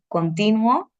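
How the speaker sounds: "continuo" stressed con-TI-nuo; stress on second syllable. Shown as a demonstration. Teacher contrasting meanings by accent, "continuo" stressed on TI. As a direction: hit the TI in "continuo". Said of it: "otro ejemplo de esto".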